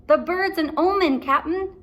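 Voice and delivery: high, loud warning; pirate fearing the omen; shouting pirate. Acted. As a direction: cry it out high. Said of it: "shouted Stinky".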